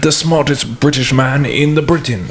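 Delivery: mock British accent. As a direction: play a pompous British detective, drawn out. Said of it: "British accent".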